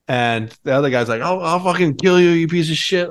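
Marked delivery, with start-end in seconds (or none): 1.2-3.1 mock threat. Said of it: "they're just yelling at each other".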